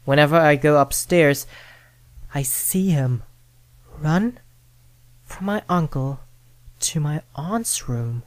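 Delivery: usual speaking voice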